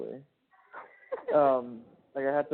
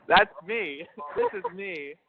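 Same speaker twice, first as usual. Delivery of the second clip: higher, casual natural voice; being himself; 8 semitones higher, slower than usual. Shown as a demonstration. Man showing partner his own everyday voice, natural and higher. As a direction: let the pitch ride up, as your unguarded self. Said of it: "when I'm being myself".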